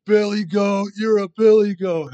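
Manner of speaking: loud, high teasing chant of a nickname; teasing taunt. Retold or imitated. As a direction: call it out like a buddy needling you. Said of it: "And he'll say".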